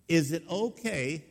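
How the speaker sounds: "is it okay" drawn out slowly, leaning on "is"; slow insistent repeat. Retold or imitated. Dying man presses pastor again, slowly and insistently. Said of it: "I'm gonna ask you again".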